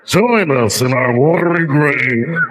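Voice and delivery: slow, eerie voice from under the sea; slow ghostly call from a watery grave; drowned ghost voice. Pretend. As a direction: moan it like the drowned dead calling. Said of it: "This is my impression of the dead people on the Titanic".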